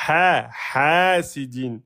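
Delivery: "hasidin" with a long, slow "Ha"; two beats. Shown as a demonstration. Teacher counting beats for students, "Ha" held long. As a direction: stretch the first vowel of "hasidin". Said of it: "Ici, deux temps".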